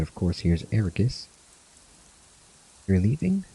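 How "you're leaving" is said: lightly acted friends saying goodbye, a bit higher; voicing game characters. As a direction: give the farewell banter a light acted read, slightly raised pitch. Reads farewell scene dialogue.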